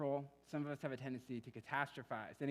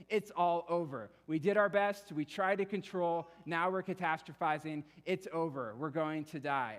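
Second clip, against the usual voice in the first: louder, slow, higher cry of doom; despairing cry; 3 semitones higher, 5 dB louder than usual. Retold or imitated. Fishermen in the sinking boat, hammed-up despairing cry. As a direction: wail that all is lost, slowly. Disciples giving up in storm.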